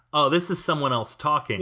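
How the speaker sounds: ordinary talk, nothing marked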